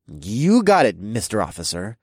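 cheeky mock-respectful; playful sarcastic compliance; mock salute. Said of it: "I saluted the man".

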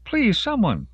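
high, desperate appeal; yelled plea. A narrator's reading. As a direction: beg anyone nearby for help. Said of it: "Denise yelled".

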